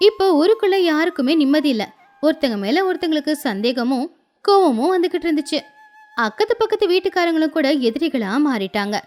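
ordinary delivery, nothing marked

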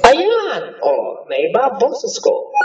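high pitch-shifted chipmunk voice; sped-up squeaky voice changer. Real, not acted. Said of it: "Ayan, ang chipmunk". (boses chipmunk)

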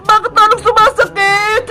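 acted stinging-pain whine; pained protest. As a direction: complain as if the wound stings. Wounded fairy stung while treated.

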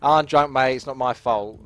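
mock cocky drunk's excuse. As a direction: brush off the blame, imitating a cocky drunk. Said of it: "not like a cocky thing".

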